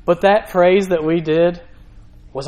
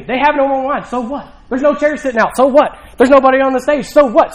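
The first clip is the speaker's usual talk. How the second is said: higher and louder, shrugging it off; dismissive so what; 5 semitones higher, 4 dB louder than usual. Pretend. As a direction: brush off every problem. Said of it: "I'm just saying".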